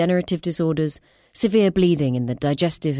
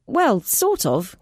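slow, higher, unsure reply; hesitant scientist; 6 semitones higher, much slower than usual. Acted. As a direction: stall for time, slowly. Clara answers hesitantly.

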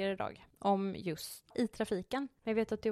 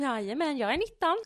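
lätt ljusare och starkare; kaxig tonåring; 4 semitones higher, 4 dB louder than usual. Pretend. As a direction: spela stolt nittonåring. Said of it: "fortsätter spelad scen".

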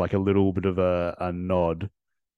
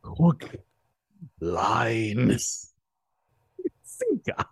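building to squeak; much slower than usual. Shown as a demonstration. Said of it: "I used to be able to do it quite well".

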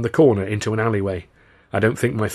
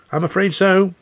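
high, loud, earnest reply; strained sympathy; anxious confirmation; 10 semitones higher, 5 dB louder than usual. A narrator's reading. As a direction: confirm it regretfully, pitched up. Victim confirms death to thugs.

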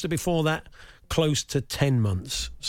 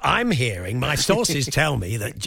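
slow, knowing gossip hint; arch knowing insinuation; slower than usual. Pretend. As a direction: tease like a tabloid insider. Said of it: "you're a natural".

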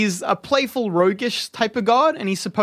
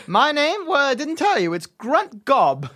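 farmer voice; 5 semitones higher than usual. Acted. GM voicing the farmer NPC.

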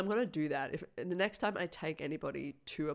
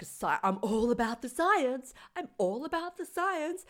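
mock mad scientist; 6 semitones higher than usual. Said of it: "That scientist that was like".

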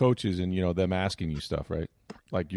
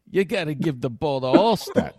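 higher, pushy reporter impression at a normal pace; a light nagging impression; Gruden doing Ira; 4 semitones higher than usual. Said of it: "That's how he's doing Ira".

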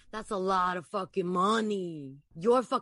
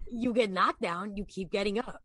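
Boston accent. Shown as a demonstration. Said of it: "that's pretty good".

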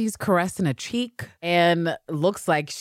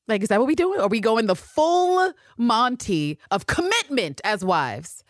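normal talking voice

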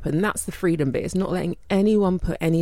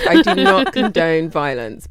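deadpan disclaimer; 7 dB louder than usual. Pretend. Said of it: "I have to say this every week".

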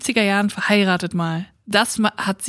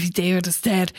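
hushed, stunned whisper; whispered disbelief; 4 semitones lower, 3 dB quieter than usual. Retold or imitated. Housemates hear the news, whispering in disbelief. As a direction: breathe it out in shock.

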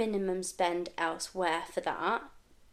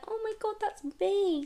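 thrilled disbelief; 12 semitones higher, 3 dB quieter than usual. Retold or imitated. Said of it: "and I'm like".

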